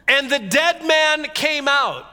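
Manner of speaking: slow, loud storyteller's reveal; dramatic reveal. A narrator's reading. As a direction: draw it out for the big reveal. Dramatic climax of the reading.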